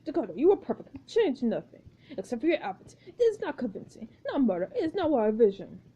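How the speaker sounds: lightly voiced pompous director; stilted, formal notes to the cast; a hint of an imperious auteur; exacting film director. Plays the director Marcus.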